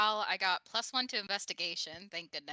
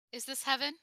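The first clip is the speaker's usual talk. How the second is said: dazed wonder; 6 semitones higher than usual. Acted. Waking dazed after kiss.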